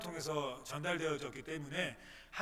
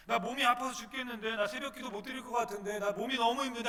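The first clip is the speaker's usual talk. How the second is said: higher, louder pleading excuse; whiny complaint; 6 semitones higher, 4 dB louder than usual. Acted. Believer excusing himself from dawn prayer, whining. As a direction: plead that you're too sick.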